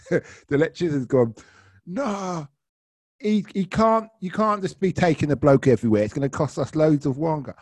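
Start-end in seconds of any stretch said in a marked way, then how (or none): 1.8-7.5 imitated protest. Passenger objects to paying for detour.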